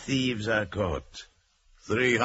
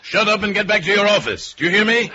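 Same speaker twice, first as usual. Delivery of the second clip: higher, louder barked orders; furious shout; 11 semitones higher, 4 dB louder than usual. Acted. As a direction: shout him down over the phone. Boss shouts down panicking accountant.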